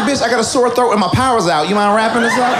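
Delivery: high, laughing sass; mock sassy retort. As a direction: fire it back high and cheeky. Retold retort to cashier.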